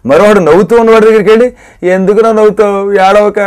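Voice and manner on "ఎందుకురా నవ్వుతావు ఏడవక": imitating a weepy drunk; mock drunken crying. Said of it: "అని ఏడుస్తాడు". (తాగి ఏడుస్తున్నట్టు నటన)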